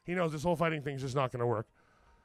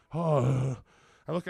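ordinary delivery

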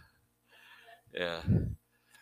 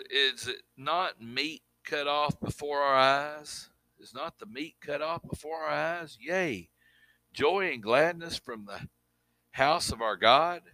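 scripture reading; 3 dB quieter than usual. Acted. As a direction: read it like holy writ to the pews. Reads scripture aloud.

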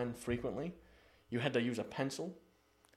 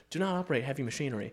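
fast disclaimer read; faster than usual. Retold or imitated. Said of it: "people who gives you the warnings".

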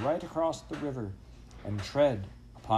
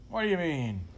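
raised pitch, falling away; taken aback mid-rage; startled anger; 6 semitones higher than usual. A narrator's reading. Farmer to saucy dog, startled. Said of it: "startled in the midst of his rage".

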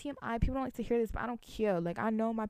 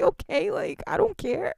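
okay tossed off much higher and louder, laughing; careless shrug; 10 semitones higher, 6 dB louder, slower than usual. Retold or imitated. To the complaining customer, a high laughing shrug-off. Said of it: "I shrug my shoulders and say".

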